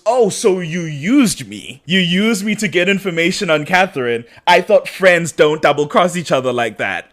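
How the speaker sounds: hamming up his hurt innocence; mock wounded Damon. Voicing Damon's wounded complaint.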